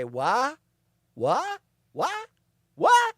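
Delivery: hard-of-hearing "what?". Acted. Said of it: "have a tendency to say".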